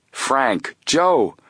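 high exclamation, building in pitch and volume; astonished cry. A narrator's reading. Chief recognizing the Hardy boys, astonished. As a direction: call each name in amazed recognition. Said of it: "cried out in astonishment".

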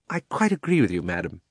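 lightly voiced fussy uncle; obliging uncle. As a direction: agree deferentially, as a fussy uncle. Uncle Andrew agrees with witch.

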